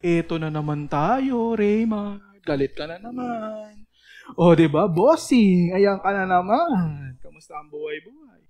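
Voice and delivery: teasing your own angry self, slow and amused; gently mock yourself like an old buddy; laughing at yourself. Shown as a demonstration. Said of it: "tawanan mo yung sarili mo". (pabirong kinakausap ang sarili)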